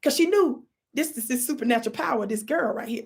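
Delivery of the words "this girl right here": normal talking voice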